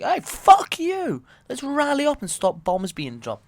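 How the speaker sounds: high, loud rallying cry; acted protest shout, drawn out at first; defiant rallying shout. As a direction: yell it out to rouse a crowd.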